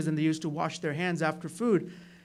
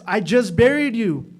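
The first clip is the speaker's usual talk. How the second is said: stunned, louder cry of disbelief; shocked disbelief; 3 semitones higher, 9 dB louder than usual. Retold or imitated. Husband finding his buried wife alive, stunned. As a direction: gasp it out as if seeing a ghost.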